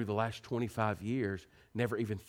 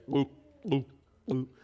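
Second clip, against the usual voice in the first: put-on baby gulping noise; 3 semitones higher, 5 dB louder, slower than usual. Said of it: "All you hear is just".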